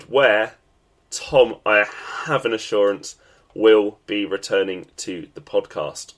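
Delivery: blocked nose, stuffy and nasal. Real, not acted. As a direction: talk through a head cold. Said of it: "listening to my nasally voice".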